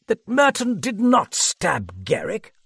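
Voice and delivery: high-pitched astonished question; incredulous cry. A narrator's reading. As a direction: cry it out in disbelief. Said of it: "Sir John cried".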